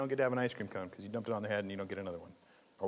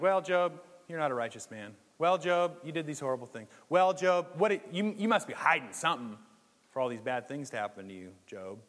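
higher, louder nagging "Well, Job" that builds; accusing friends; 3 semitones higher, 5 dB louder than usual. Retold or imitated. Job's friends scolding Job, mock accusing voice. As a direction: hammer Job with pious accusations. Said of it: "Job's friends keep being like".

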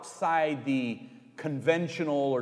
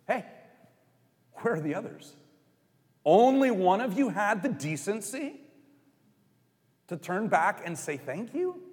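annoyed Jesus; 4 semitones higher than usual. Acted. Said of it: "it wasn't robotic".

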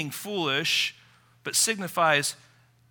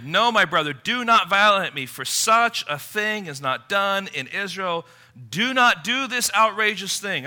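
loud, raised plea; Tamar's raised, forceful refusal; firm refusal; 4 semitones higher, 5 dB louder than usual. Retold or imitated. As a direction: plead with him to stop. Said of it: "She answered him".

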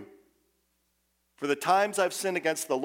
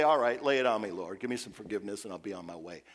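cocky demand; 6 semitones lower, faster than usual. Retold or imitated. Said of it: "puffed up and cocky and say".

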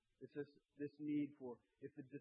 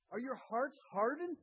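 higher and louder, pressing the question; forceful rebuke; 8 semitones higher, 6 dB louder than usual. Acted. Preacher voicing Jesus rebuking the disciples, forceful. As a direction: demand it of them.

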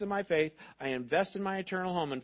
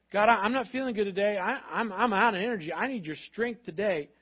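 mock tired prayer; 3 semitones higher, 3 dB louder than usual. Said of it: "when you feel like".

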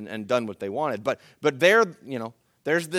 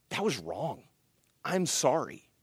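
1 simple apology; 6 dB quieter than usual. Shown as a demonstration. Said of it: "rather than just saying".

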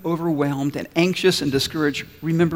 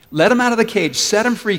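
put-on boy's demand; 6 semitones higher, 6 dB louder than usual. Boy demands his dog back.

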